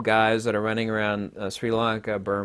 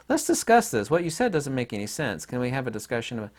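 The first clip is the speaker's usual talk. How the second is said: calm reasonable tone. Shown as a demonstration. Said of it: "to talk in this tone of voice".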